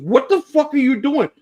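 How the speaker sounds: exasperated wife. Retold or imitated. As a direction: play the shocked wife demanding an answer. Wife voiced yelling in story.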